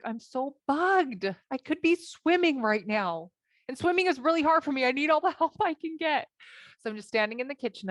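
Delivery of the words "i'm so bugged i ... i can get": fuming complaint, rising higher as it goes; bugged. Retold or imitated. Wife stewing in the kitchen about missing swimming, bugged. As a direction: replay the annoyed inner rant. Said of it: "I'm really bugged".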